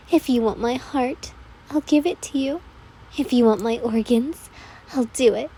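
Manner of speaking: a hint of a clingy yandere girl pleading devotion; devoted Toga voice. Toga's devoted speech.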